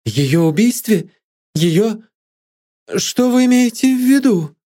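high-pitched cry of shock; acted outcry, pitch shooting up; sudden cry. A narrator's reading. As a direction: burst out in shocked, climbing questions. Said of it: "с внезапным криком".

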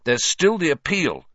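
high, insistent encouragement; fierce. A narrator's reading. Ron urges Hagrid on, fiercely. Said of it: "said Ron fiercely".

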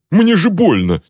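high pained cry, then a slow cursing groan; agonized outburst. A narrator's reading. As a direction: cry out while writhing in a tight suit. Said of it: "Казалось, он вот-вот вывернется наизнанку".

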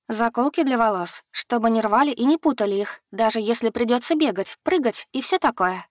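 put-on young woman rattling off a report; brisk report. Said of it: "отрапортовала Яна".

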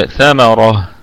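ثمرة slow, ending on ha in pause; pausal demo. Shown as a demonstration. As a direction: recite ثمرة stopping on the ha. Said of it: "ثمرة أو ثمرة هكذا". (ثمرة بالوقف على الهاء ببطء)

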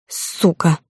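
usual speaking voice

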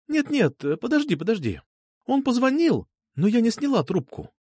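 voiced young woman. Girl's voice in dialogue.

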